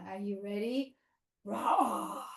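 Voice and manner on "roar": short, breathy roar; big bear roar. Pretend. Bear is ready for honey, short roar. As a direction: bear roar at half strength. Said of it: "This big bear".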